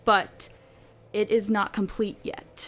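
slow, hushed creepy reading; spooky voice. Pretend. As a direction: read it like a creepy stranger. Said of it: "Do it in a spooky".

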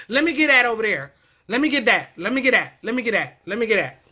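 "that" starting with D, casual; that as "dat". Shown as a demonstration. Vlogger demonstrating in a sentence, "that" as "dat". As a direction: run words together, "that" as "dat". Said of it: "replaced it when it's in the front".

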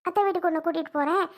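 high, coaxing grandma voice; coaxing sweet talk. Acted. Grandmother coaxing granddaughter to aunt's house, sweet and high. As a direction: lure the child along sweetly, lifted up high.

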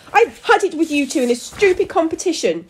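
high, loud, fed-up tirade; angry shout. A narrator's reading. Daughter rails at her competing parents, shouting. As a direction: shout it like the final straw. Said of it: "As Susie shouted".

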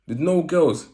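high, loud comic surprise; mock outrage, no girls; comic disbelief. Retold thought while dancing.

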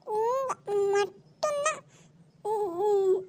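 put-on slow, sobbing words of a sulking child; crying child. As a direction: sob it out slowly like a hurt little kid. Child sulking over new dress.

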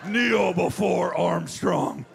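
slow, commanding proclamation; grandiose decree. Retold or imitated. Armstrong declaring himself king, slow commanding decree. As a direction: proclaim like a conqueror. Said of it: "you'd say".

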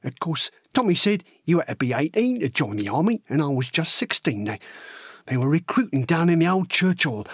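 chatty working-class lad telling his own tale; matey, plain-spoken soldier's yarn; young Cockney recruit recounting. Acted. Horace recalling how he went to enlist, chatty.

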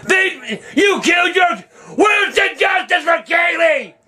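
real outrage, yelling at the TV; furious outburst. Real, not acted. Man yelling at the TV over the verdict, furious. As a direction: shout it in disbelief at the verdict. Raging about justice for the baby.

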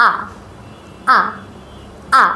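teacher models the ʌ vowel; ʌ sound demo. Shown as a demonstration. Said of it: "এই সিম্বলটা থেকে যেই sound হয় সেটা হলো".

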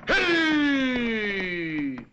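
a high cry of "Ehi!"; sudden cry. Acted. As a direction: yelp it out as if startled.

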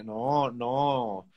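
usual speaking voice

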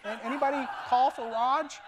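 half-laughing pretend hello; mock timid greeting. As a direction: poke your head in nervously. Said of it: "turn into the door and say".

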